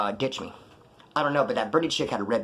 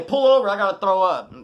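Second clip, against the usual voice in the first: higher and louder whiny mock plea, hammed up; mock weak plea; 6 semitones higher, 6 dB louder than usual. Teller mocks the plea he refused to make, whiny. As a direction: play it like a sick weakling begging to stop. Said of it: "I don't wanna say".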